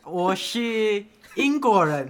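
put-on British accent. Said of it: "那你变成英国看看".

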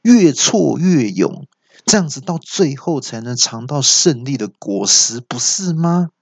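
put-on sly demon lecturing a little girl; villain voice. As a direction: preach at the kid like a smug ogre. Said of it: "那恶怪就说".

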